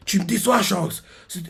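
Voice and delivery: high-pitched disappointed reproach; acted indignant disappointment; displeased. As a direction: scold a friend, pitch climbing. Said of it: "pas content".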